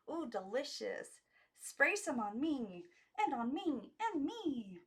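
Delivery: put-on rising childish eagerness; eager girls. A narrator's reading. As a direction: clamour to be sprayed next. Girls beg for perfume.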